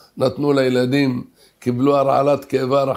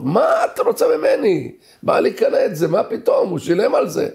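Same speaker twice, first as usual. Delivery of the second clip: indignant shouting; 5 semitones higher than usual. Retold or imitated. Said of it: "היה צעקות".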